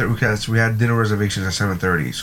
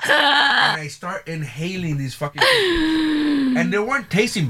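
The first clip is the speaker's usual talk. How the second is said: laughing through it; 11 semitones higher than usual. Real, not acted. Laughing while telling cookie story.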